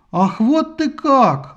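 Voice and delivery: loud, high, very slow; knocked-down hero bellowing; enraged yell. A narrator's reading. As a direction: roar it, furious. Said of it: "заорал взбешённый герой".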